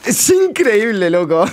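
high, drawn-out disbelief; real astonishment, slow and high; incredulous. Real, not acted. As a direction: stretch it out in amazed disbelief. Incredulous reaction to a game play.

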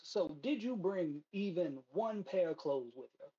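a hint of a charming cowboy recruiter; easy, charming patter. Recruiter charming the scientist out of the city, lightly voiced. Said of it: "that charm immediately returns".

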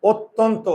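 "অত্যন্ত" with rounded o vowels; correct pronunciation demo. Shown as a demonstration. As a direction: keep the jaw closed through "অত্যন্ত". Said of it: "আমরা উচ্চারণ করি কি?". ("অত্যন্ত"-এ চোয়াল না খুলে ও-কার)

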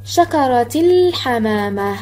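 شكرت الحمامة slowly as "shakarati-l-hamaama", l held long; moon lam linked. Shown as a demonstration. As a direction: stretch the l of الحمامة as it joins شكرت. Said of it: "عند الوصل وعند الوقف".

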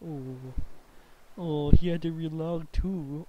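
a slow, teasing coo; mock pity. Real, not acted. Mocking taunt, slowed.

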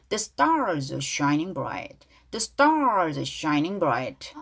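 slow model line, "bright" ending on a light T; weak final T. Shown as a demonstration. Teacher drills the line for learners, slow with weak T. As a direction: stretch "stars" with its R, soften the T of "bright". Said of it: "트 발음 약하게".

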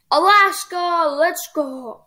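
high, hushed excited whisper; hyped whisper. Real, not acted. Player hyped over winning Alaska, whispered glee.

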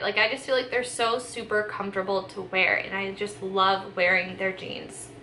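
a bit out of breath. Real, not acted. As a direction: talk slightly winded after a long haul. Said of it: "I feel like I'm out of breath over here".

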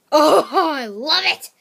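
loud, slow gush. Real, not acted. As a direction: draw out the love.

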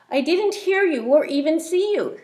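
lazy hissy iguana. Acted. Iguana defends himself.

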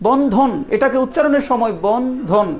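বন্ধন split slowly as বন and ধন; two-syllable demo. Shown as a demonstration. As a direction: sound out বন্ধন in two beats. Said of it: "এই দুই ভাগ করে উচ্চারণ করা হয়". (বন্ধন ধীরে দুই ভাগে উচ্চারণ)

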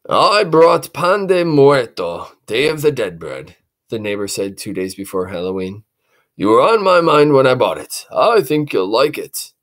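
lightly voiced kind neighbor; friendly neighbor. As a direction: offer it kindly. Neighbor brings bread.

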